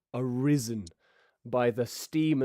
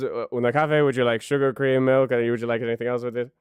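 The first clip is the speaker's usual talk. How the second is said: louder, brisk host offering coffee; eager waiter voice; 5 dB louder than usual. Acted. Swan Dos offering coffee to guests, brisk and loud. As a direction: rattle off the options like an eager waiter. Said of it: "he goes".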